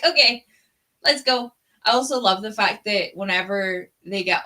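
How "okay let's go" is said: higher, louder mock eagerness; eagerly voicing the horse's let's go. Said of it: "It was like".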